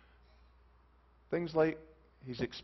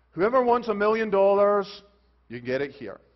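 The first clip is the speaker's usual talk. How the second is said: loud, raised street cry; calling out; 4 semitones higher, 10 dB louder than usual. Acted. Somebody out in the street offering money, calling out. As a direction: shout the offer to every passer-by.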